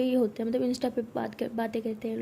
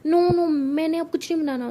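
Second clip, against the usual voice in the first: much higher, louder whining protest; whiny refusal; 6 semitones higher, 6 dB louder than usual. Acted. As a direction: refuse like a sulky teen. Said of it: "तो अनोखी बोलती".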